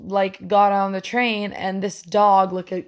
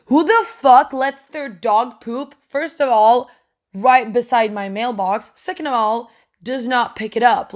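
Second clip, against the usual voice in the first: indignant rant; 2 semitones higher, 5 dB louder than usual. Real, not acted. Indignant rant about dog owner.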